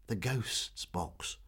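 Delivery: very slow, soft reveal; hushed. Acted. Meg reveals the secret hushed.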